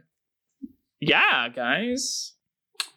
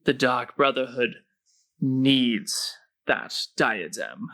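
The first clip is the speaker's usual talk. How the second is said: ominous hooded stranger. Acted. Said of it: "the hooded figure says".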